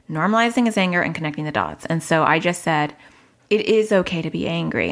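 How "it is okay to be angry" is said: calm, steady reassurance. Retold or imitated. Mother calmly reassuring angry son. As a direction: say it gently and evenly. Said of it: "I said it again in a calm voice".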